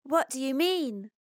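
put-on high, curious boy's question; intrigued. A narrator's reading. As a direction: ask with puzzled, keen interest, voice lifted high.

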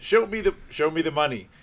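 high, loud catchphrase delivery; hyped-up demand. Retold or imitated. Imitating Doctor Evil pressing the president, hyped-up demand. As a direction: belt it out like a film quote.

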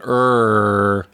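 filmmaker's err. Retold or imitated. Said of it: "so he was going".

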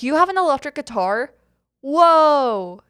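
high, loud, acted astonishment; amazed onlooker. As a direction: play someone wowed by what they see. Voicing people who see the guitar.

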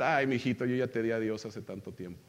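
quietly resigned mother; mother's gentle reply. Retold or imitated. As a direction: imitate a mother calmly answering her son. Mother's tender reply in Spanish, retold.

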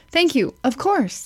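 breezy, offhand "Of course" after thanks; casual American reply. Shown as a demonstration. Wife showing husband the American reply, offhand. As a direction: toss off "Of course" lightly as an American would. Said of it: "Why do Americans say "Of course".

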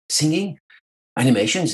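high, baffled echo of the word. Retold or imitated. Repeating the suggestion back in disbelief, baffled. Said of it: "He said, "Singing." / I'm like".

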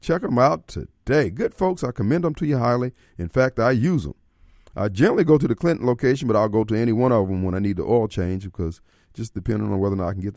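low-pitched, conversational radio endorsement; personally recommend the sponsor to listeners; sponsor ad read. Acted. Host recommends a car shop to listeners, conversational ad read.

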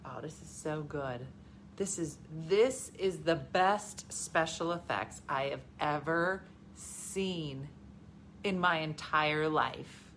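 slow, low, reverent wonder; slow-motion amazement, acted out; recalled awe. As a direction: savor each phrase slowly, in awe. Recalls being awed by effects.

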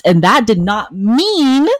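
acting out a touch of righteous anger; acted indignant retort. Acted retort in a couple's fight.

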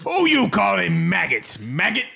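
mock orc.

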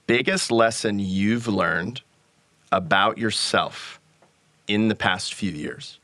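slow, deliberate reading of the question. Shown as a demonstration. Host reads an audience question out slowly. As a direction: give each phrase its own slow beat. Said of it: "I'll just repeat it again".

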